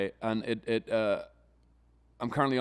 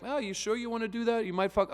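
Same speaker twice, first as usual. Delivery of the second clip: 1 mocking coach voice; 10 semitones higher than usual. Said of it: "the coach sitting there and he's like".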